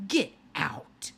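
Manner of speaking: a breathy whispered get out; stunned whisper. Acted. Margaret whispers in shock at the secret identity. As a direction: hiss it out in disbelief.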